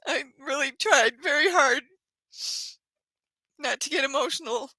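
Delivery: real tears in the voice; crying. Real, not acted. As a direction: voice breaking with tears. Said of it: "I'm sorry that I'm crying".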